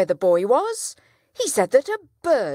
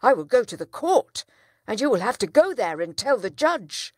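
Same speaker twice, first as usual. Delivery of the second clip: loud outraged protest; a furious father threatens court; crying out; 6 dB louder than usual. Acted. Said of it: "cried the town trader".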